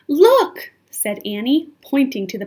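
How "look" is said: high, loud exclamation; urgent call. A narrator's reading. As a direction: call out to point something out. Annie calls attention to palace.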